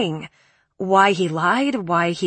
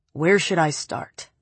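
slow menace; 2 semitones lower than usual. Acted. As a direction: drag it out like a threat.

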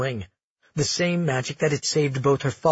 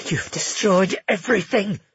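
snarling; 5 semitones higher than usual. A narrator's reading. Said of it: "she snarled at the child".

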